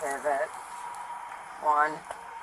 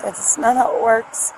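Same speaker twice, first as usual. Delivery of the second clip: louder, insistent pushback; upset protest; 3 semitones higher, 6 dB louder than usual. Real, not acted. Driver argues with officer about her job, loud and upset. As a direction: fight back against the suggestion.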